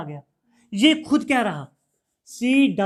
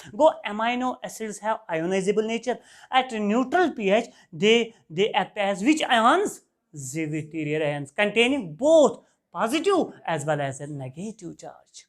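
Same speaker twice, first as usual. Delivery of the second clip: very slow, word-by-word dictation; teacher dictating a definition at writing pace; dictating notes; much slower than usual. Acted. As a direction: spell it out slowly so the class can write.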